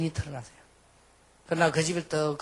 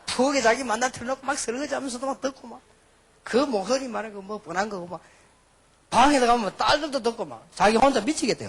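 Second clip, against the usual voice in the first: retold complaint; 7 semitones higher than usual. Retold complaint about sermons playing everywhere.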